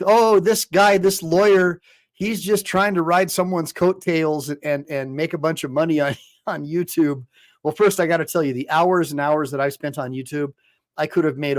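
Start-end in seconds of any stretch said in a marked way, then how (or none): 0.1-7.3 higher, louder sneering critic; mock critic. Lawyer mimics the YouTube critics, louder and sneering. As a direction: mimic the doubters with scorn. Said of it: "they think".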